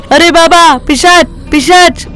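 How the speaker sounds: a storyteller's lightly acted scream of fright; scared shout. Ranga sees Thakur's demon face, mild mock yell. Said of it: "ऐसे जोर से चिल्लाता है".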